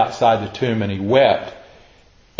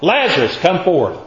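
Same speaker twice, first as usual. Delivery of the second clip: higher-pitched commanding call; 4 semitones higher than usual. Acted. Jesus calling Lazarus out of the tomb, calling out. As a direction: summon him in a raised pitch.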